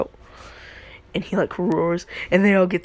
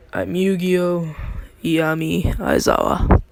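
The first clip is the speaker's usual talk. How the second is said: confident persona. Retold or imitated. Kid introduces himself to the class, confident persona. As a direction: announce each name with measured self-assurance. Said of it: "his voice is deeper".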